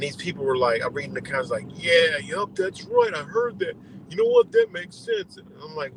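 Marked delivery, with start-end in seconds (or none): 1.7-5.4 much higher, eager falsetto agreement; mock gullible commenters. Mocking gullible comment-section believers in a high falsetto. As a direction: ham up dim commenters nodding along.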